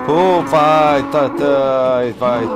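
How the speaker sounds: loud, rushed go go; urgent loud urging. Real, not acted. Player fleeing the monster, loud urgent urging. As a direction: push through in a panic. Chased in horror game.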